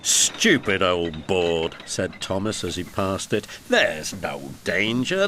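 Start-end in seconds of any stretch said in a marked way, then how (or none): 0.0-1.8 scornful. Acted. Thomas scoffs at warning board. 3.7-5.3 slow defiant. Acted. Thomas repeats, defiant.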